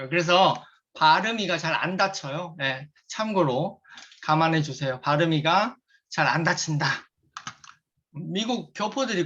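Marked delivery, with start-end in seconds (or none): 0.9-2.5 slurred speech from braces; braces lisp. Real, not acted. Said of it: "제가 지금 치아 교정 중이에요". 5.0-6.9 imitating a Korean-American saying 발음이가 with a cute lilt; light Korean-American accent on 발음이가, playful. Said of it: "이렇게 표현하길래 제가 흉내 내봤어요".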